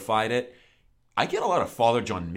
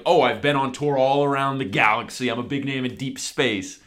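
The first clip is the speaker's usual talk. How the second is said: lightly acted boast, a little louder at first; touring star; 3 semitones higher, 4 dB louder than usual. Podcaster voicing one reading of a lyric, lightly acted boast. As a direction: play up the touring star a touch. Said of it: "that could also be like".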